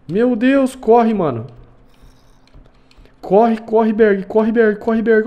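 panicked yelling, high and loud; being chased. Real, not acted. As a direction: shout in real panic while running. Fleeing a zombie in panic.

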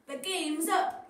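slow, loud triumphant cry; hero yell. Acted. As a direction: corner the villain. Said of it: "yelled Sweet Potato".

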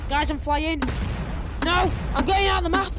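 loud, rising panic and glee; gleeful shout; excited shouting. Real, not acted. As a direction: yell it as you fly off the map. Flying out of the map.

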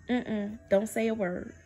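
gentle divine hush; hushed warning. Retold or imitated. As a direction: quietly shush her. God hushing her.

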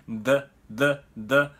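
"the" with a short vague uh vowel; voiced th into a loose schwa on "the"; schwa after TH. Shown as a demonstration. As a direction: repeat "the" in short, separate bursts. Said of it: "曖昧母音と呼ばれる".

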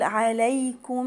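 "عليكم" chanted with a long hummed final m; ghunna. Shown as a demonstration. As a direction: hold the nasal m ending "عليكم". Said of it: "وهجيب في غنة أقول". ("عليكم" بغنة ممدودة على الميم)

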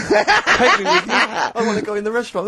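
high, loud wail of a mock child; pleading little kid. Little kid locked in the coach begging to come, mock wailing.

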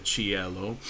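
"cielo" as chee-EH-lo; stress on E. Shown as a demonstration. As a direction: put the weight on the middle of "cielo". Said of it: "it would be clear that I'm saying".

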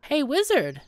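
the sellsword calls him by the wrong title. Shown as a demonstration. Sellsword hails the mage with the wrong title, a loud call. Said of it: "address me correctly!".

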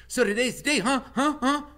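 high, eager squirrel chatter; squeaky excited squirrel voice; chatty squirrel. Acted. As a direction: pester him like a nosy little squirrel. Squirrel Chit Chat chatters.

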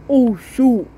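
mock panic. Panic after pushing kid, louder.

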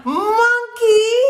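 sudden high squeal on monkey; shocked shriek. Acted. Scipito spots his stolen sock monkey, shrieking. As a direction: yelp it out in alarm.

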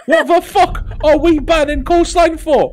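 anguished, voice near tears; despairing. Real, not acted. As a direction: groan it out in despair. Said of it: "you sound so, like, in such despair".

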